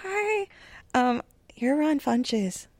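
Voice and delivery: nervous fan whispering; starstruck whisper. Retold or imitated. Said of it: "I went up to him like".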